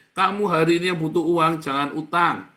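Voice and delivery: loud, high pulpit exhortation; forceful sermon shout; loud preaching. Real, not acted. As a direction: call it out to the hall.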